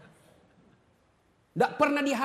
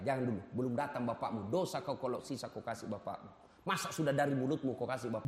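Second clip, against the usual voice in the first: mother scolding; 10 semitones lower, 6 dB quieter than usual. Retold or imitated. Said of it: "kata ibu saya".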